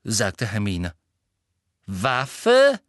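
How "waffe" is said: louder, rising repeated question; excited. A narrator's reading. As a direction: seize on the word. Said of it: "Augen schienen vor Aufregung".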